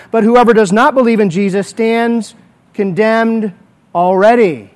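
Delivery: solemn, measured Bible reading; scripture reading. Acted. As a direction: read the verses with weight. Reads scripture aloud.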